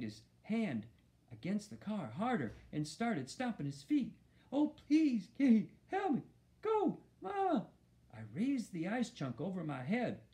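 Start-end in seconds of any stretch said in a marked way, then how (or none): 4.5-7.7 very high muffled pleading; mouth full. A narrator's reading. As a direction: plead urgently with lips stuck to something. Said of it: "like he had something in his mouth".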